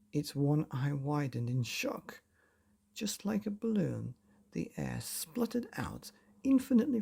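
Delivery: put-on lively, breathy storytelling for children; bedtime story narration. A narrator's reading. Narrator reading a bedtime chapter to children, playful storytelling. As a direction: spin the tale to sleepy kids.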